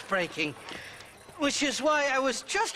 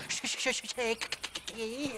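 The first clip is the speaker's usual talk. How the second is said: mocking stutter; 7 dB quieter, slower than usual. Irish teasing Shaky by copying his stutter, mocking stammer. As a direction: stammer the name on purpose, teasing.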